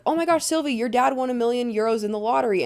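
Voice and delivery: high, breaking-news excitement, imitated; mock excitement. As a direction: act out rushing in with huge news. Acts out Grace bursting in.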